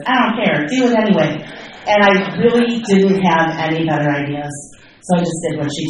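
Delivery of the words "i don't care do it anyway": fast, brisk bossy sponsor. Retold or imitated. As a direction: brush it off quickly like a bossy sponsor. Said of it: "and she said".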